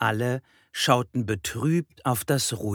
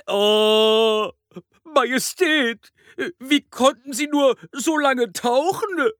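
high, loud gasp of amazement; wide-eyed, drawn-out amazement; astonished donkey; 13 semitones higher, 5 dB louder than usual. A narrator's reading. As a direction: marvel at the king in a high, put-on voice. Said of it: "fragte ein Esel erstaunt".

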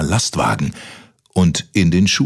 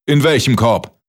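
giant voice; 6 semitones higher, 4 dB louder than usual. Acted. Giant asks.

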